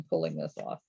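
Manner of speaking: tense, breath held while talking; holding breath. Real, not acted. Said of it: "I'm holding my breath".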